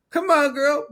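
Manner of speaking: high, loud imitation of a yell; mock yelling. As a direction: yell it like an exasperated friend, imitating. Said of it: "they're yelling at this one girl".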